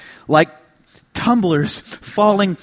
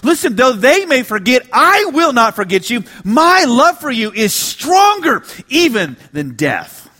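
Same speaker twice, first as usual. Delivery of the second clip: God's voice; 5 semitones higher, 4 dB louder than usual. Acted. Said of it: "but God is saying here".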